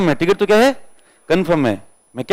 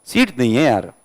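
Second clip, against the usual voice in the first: lower, gentle and apologetic; polite and loving; 5 semitones lower than usual. Retold or imitated. Ticket checker kindly breaks the news to the boy, gentle and lower. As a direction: soften it like a kind uncle. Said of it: "polite तरीके से कहा".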